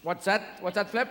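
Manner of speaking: a hint of an eager dolphin reporting news. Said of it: "dolphins came up going".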